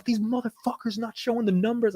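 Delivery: New Jersey accent, mock griping; mock New Jersey fund guy. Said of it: "He was like".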